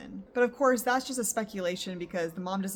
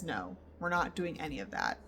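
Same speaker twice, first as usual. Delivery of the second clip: quiet, calm refusal, a bit lower; calmly; 5 semitones lower, 4 dB quieter than usual. Retold or imitated. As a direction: say no calmly, without heat. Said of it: "Evan just calmly says".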